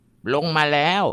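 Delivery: put-on high, slow child's whisper-like eeriness; drawn out high like a small boy spooked; imitating a little boy, high and slow; young grandson's voice. Grandson says someone came down.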